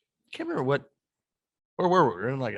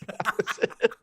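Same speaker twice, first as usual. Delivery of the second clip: high, drawn-out disbelief; amazed; 10 semitones higher, slower than usual. Real, not acted. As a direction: sell how wild it was. Amazed end of story.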